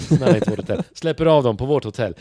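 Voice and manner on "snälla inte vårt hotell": louder, urgent begging; louder desperate plea. Retold or imitated. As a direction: plead harder as hope fades. Begging grows more desperate.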